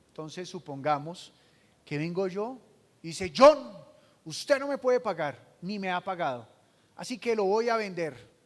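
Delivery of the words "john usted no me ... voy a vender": stern king. Acted. Preacher voices the king to debtor.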